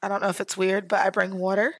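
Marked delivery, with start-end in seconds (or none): 1.4-1.7 her own Central Florida "water"; "water" in her usual regional way; own regional pronunciation. Shown as a demonstration. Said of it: "the way I say water".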